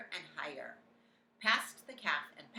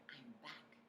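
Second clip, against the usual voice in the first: whispering. A narrator's reading. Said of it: "I whispered".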